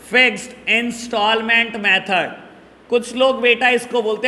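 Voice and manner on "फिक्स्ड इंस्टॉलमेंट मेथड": "Fixed instalment method" measured, words set apart; dictation. Shown as a demonstration. Teacher repeating another name for students, measured dictation.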